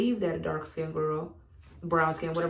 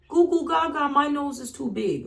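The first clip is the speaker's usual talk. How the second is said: high, hammed-up baby babble; mock newborn; 8 semitones higher, 5 dB louder than usual. Mocking the idea a newborn hates its nose, high babyish voice. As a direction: play a newborn whining about its nose. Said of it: "a baby fresh out the womb".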